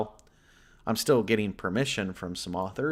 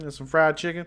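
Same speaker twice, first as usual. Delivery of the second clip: put-on Southern accent; 5 semitones higher than usual. The streamer greets his Texas viewers in a mock Southern accent. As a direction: play up a Southern local accent. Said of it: "when I talk like this".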